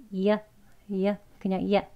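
"이야", you reduced to "ya"; relaxed "ya" for you; casual weak "you". Shown as a demonstration. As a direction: say "이야" short, with no oo. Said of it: "약간 이야 하는 발음으로".

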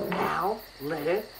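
"Alligators" in separate beats, al, li, ga, tors; syllable by syllable. Shown as a demonstration. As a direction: sound out "Alligators" with pauses between syllables. Teacher breaks word into syllables.

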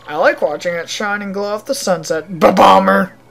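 hammy Russian with exploding catchwords; Russian accent. Acted. Villager chats about the sunset, hammed-up Russian accent. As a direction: punch the bang words in mock Russian. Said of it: "in case you couldn't tell, this place is Russia".

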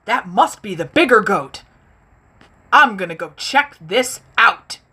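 eager troll, lightly voiced; a hungry troll perks up at a sound; playful troll voice for kids; troll noticing a goat. Troll voice held in story.

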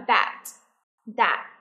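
"that" with tongue out on a voiced TH; "that" said singly as a pronunciation model. Shown as a demonstration. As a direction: model "that" twice, tongue between teeth. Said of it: "Đưa lưỡi ra và nói".

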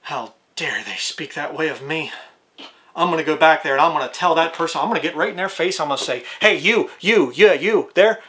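a hint of offended, indignant pride. Your pride plotting to confront the mocker, mildly indignant. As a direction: lightly play your own wounded pride. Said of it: "And your pride goes".

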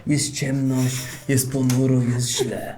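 poetic gloom. Acted. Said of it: "wywody robisz? Poetyczne?".

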